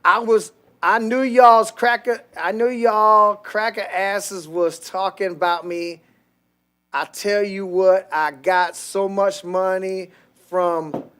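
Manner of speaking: slow, exaggerated Ebonics accent; mock Ebonics. Podcast host reading out a viewer's chat message, mock Ebonics. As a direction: lay on a drawn-out caricature of Ebonics. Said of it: "I can't read your fucking Ebonics".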